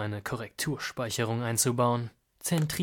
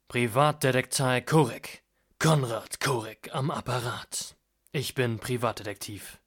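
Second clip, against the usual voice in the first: deep, raspy smoker's voice; 3 dB louder than usual. Acted. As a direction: rasp it out low like a smoker. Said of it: "Tief und kratzig, reif und vollkommen".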